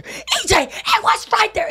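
high, slow mock yell; mock screaming parent. Parents screaming at each other, high mock yell. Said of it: "screaming at each other".

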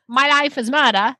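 light Australian accent. Shown as a demonstration. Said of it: "Here's Australian".

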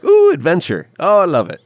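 high, loud gleeful squeal; excited delight. Retold or imitated. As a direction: gush like a thrilled kid. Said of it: "smiling ear to ear like".

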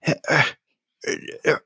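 very high, flustered stammer; Despo. Acted. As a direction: stammer frantically in a high-pitched character voice. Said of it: "And Despo says".

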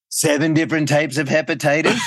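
quoting the line through a laugh. Retold or imitated. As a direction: laugh while delivering the punchline. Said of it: "this was Michael's line".

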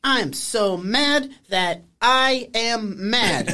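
slow, flat imitation of a sitcom tantrum; mock-sincere understated fury; deadpan mock anger. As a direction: recite the anger like it means nothing. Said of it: "a real thing that a normal person would say when they're pissed off".

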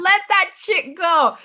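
high, slow, sassy release; bold affirmation. Shown as a demonstration. Reading a keychain phrase, slow and sassy. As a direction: stretch it out high, savoring it. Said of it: "I don't know what it is about that one".

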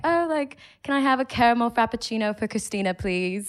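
British accent. Shown as a demonstration. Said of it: "I'll just order an, a British accent".

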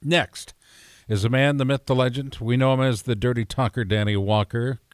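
lightly put-on radio announcer intro, low and measured; radio guy. Real, not acted. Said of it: "you sound like a radio guy".

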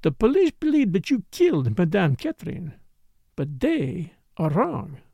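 lightly voiced dancer with an accent; insistent foreign dancer. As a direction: play the accented dancer, a little pointed.

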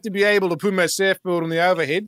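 put-on Australian accent. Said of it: "them beautiful Australian accents".

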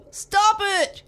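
loud, high roar breaking into giggles; roaring through laughter. A narrator's reading. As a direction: protest while being tickled. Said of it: "he roared".

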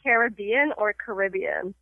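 "Caribbean" as carib-BEE-an, then ca-RIB-ian; two pronunciations. Shown as a demonstration. Host quizzing a guest, "Caribbean" said both ways. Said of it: "I have a pronunciation test".

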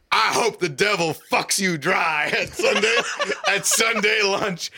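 high-pitched, hammed-up outburst; mock angry curse. Son cursing his family at Sunday lunch, mock outrage. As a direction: spit out a retold curse, half amused. Acted family quarrel at table.

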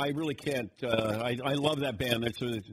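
sentence fading into fry; vocal fry. Shown as a demonstration. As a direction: trail off into creaky fry. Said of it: "so they start out with something like this".

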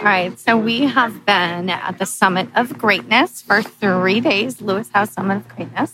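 hoarse, strained voice; lost voice. Real, not acted. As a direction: talk through a shot voice. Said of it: "your voice doesn't sound so good either".

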